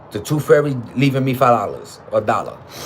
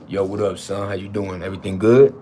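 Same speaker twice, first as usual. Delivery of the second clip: mock American street accent; 4 semitones lower than usual. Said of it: "come to America and".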